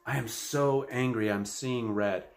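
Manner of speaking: slow, mildly heated declaration; a touch of mock anger, drawn out; angry. Shown as a demonstration. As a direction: demo of high-intensity venting. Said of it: "the emotional intensity that's involved with that is very high".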